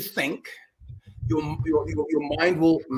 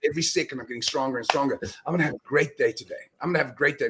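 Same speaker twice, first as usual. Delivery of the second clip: self-pep talk; 4 semitones lower, 3 dB quieter, faster than usual. Retold or imitated. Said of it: "I start saying to myself".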